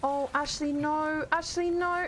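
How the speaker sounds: high, drawn-out dismay; panicking. Real, not acted. Player crying out to the companion in danger, panicking. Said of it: "I'm panicking".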